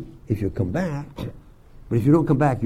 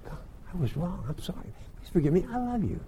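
very soft, hushed confession; modelled apology prayer; 3 semitones higher, 11 dB quieter than usual. Acted. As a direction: say it small and quiet, as to God.

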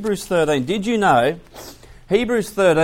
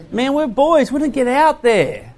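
put-on kid protesting; 10 semitones higher, 4 dB louder than usual. Boys protesting to mum.

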